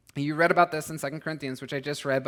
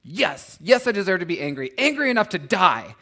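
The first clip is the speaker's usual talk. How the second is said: Jonah's angry retort; 3 semitones higher, 6 dB louder than usual. Retold or imitated. Preacher voicing Jonah's angry answer to God, growing louder. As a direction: let Jonah's sulk swell into protest. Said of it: "Jonah's response is".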